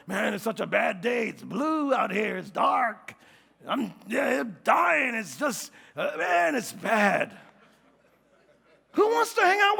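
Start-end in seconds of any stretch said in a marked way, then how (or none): 0.1-7.4 mock moaning in self-pity; a hint of a drawn-out moan; gloomy complainer. Preacher imitates someone nobody wants around, mock gloomy moaning. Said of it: "Nobody wants to be around people that's".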